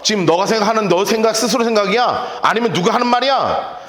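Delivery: steady, upright challenge; 당당하게. Acted. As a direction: stand firm and question the questioner. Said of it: "딱 서서". (딱 버티고 당당하게 되묻기)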